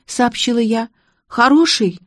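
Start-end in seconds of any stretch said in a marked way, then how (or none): 1.3-2.0 put-on high little-girl question; childlike girl. A narrator's reading. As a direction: ask anxiously like a small child. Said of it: "по-детски".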